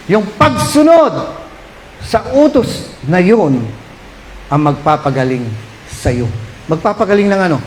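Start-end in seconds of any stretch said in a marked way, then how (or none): 0.1-6.3 slow, deliberate stress; slow, weighty preacher line; slow emphasis. Acted. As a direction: draw out each word. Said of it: "repeats slowly".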